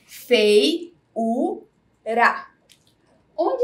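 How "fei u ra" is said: Fei-u-ra said syllable by syllable, each part separated; split into syllables. Shown as a demonstration. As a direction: break Fei-u-ra into three clear beats. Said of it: "vamos separar a palavra feiura".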